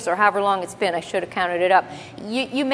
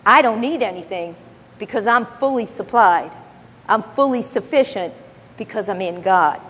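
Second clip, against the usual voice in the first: settled, unhurried "I don't need anything because I'm fully supplied"; calmly assured; 3 semitones lower than usual. Shown as a demonstration. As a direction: rest easy in "I'm fully supplied", no pride.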